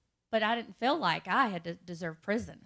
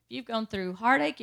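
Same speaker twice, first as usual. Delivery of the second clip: preacher listing; 3 semitones higher, 4 dB louder than usual. Retold or imitated. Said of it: "he starts listing all this stuff".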